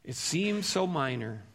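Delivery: soft, hushed "It seems so minor." with a gently falling "so"; quiet repeat. Acted. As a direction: let the line drop to a soft, reflective near-murmur. Preacher repeats the line after a long pause.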